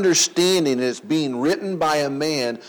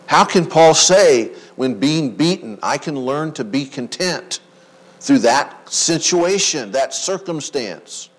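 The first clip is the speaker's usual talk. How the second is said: louder rhetorical question; 6 dB louder than usual. Acted.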